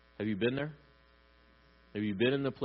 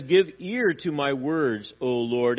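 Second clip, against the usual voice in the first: slow, louder plea to God; crying out; 5 dB louder than usual. Retold or imitated. Preacher quotes David's prayer in verse one, crying out. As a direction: call out the prayer with weight. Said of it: "So he cries out".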